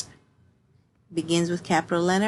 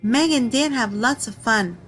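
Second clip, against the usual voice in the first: excited exclamation; 4 semitones higher, 3 dB louder than usual. Shown as a demonstration. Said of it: "exclamation mark".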